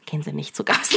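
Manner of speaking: whispered aside. Real, not acted. Joke aside to doctor.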